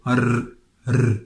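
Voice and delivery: R as a vibration of the tongue against the front palate; alveolar trill. Shown as a demonstration. Teacher demonstrates the phonetic term, alveolar trill. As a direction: roll a bare R on the tongue tip. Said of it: "it's just like a vibration of the tongue".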